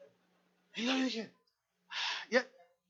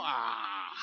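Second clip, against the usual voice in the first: mock low war cry; 11 semitones lower than usual. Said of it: "Así le dijo".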